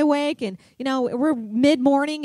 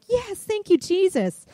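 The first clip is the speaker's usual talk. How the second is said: much higher, overjoyed praise; joyful thanks; 7 semitones higher, slower than usual. Retold or imitated. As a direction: burst out thanking Jesus. Finding the eight-point deer.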